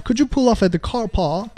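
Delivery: approximate British accent with dropped r; imitated British accent. Shown as a demonstration. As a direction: try a British English reading. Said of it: "音腔，可能模仿的不是特别准". (模仿英音)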